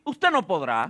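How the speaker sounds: low, hushed discouraging voice. Retold or imitated. Preacher imitating the voices that say you can't, low and hushed. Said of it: "Hay voces que te van a decir".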